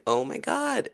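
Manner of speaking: high, gushing mock envy. Replying to classmates with sarcastic high-pitched envy. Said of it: "I'm like".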